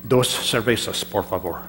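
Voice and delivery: Spanish phrase, slow. Shown as a demonstration. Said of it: "I don't know much".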